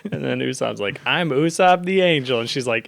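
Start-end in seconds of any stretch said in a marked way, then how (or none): 1.1-2.4 grand angel voice. Retold or imitated. Usopp's grand claim.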